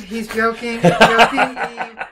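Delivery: loud, slow laughing reassurance; laughing protest. Real, not acted. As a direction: insist it's a joke through laughter. Laughing reassurance after cat joke.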